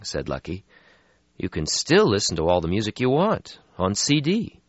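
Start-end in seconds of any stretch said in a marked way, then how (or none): 1.4-4.6 brisk, a bit higher; young vampire voice. Acted. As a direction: brush off the gloom. Lucky voiced in story.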